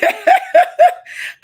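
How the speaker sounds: high, loud burst of embarrassed laughter; real laughter, high and loud; big laugh. Real, not acted. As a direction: laugh out loud at your own accent. Don't laugh at me.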